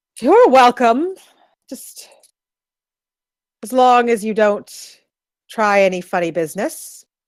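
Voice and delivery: words with a chuckle running through, amused. Voicing a guard who welcomes travellers to the fire: chuckling while speaking. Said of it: "He chuckles and gestures towards the fire".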